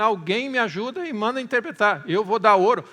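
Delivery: loud acted cry for help; imitating a king's urgent yell; retold shout. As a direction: call out like a desperate king offering a reward. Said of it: "E ele gritou, dizendo".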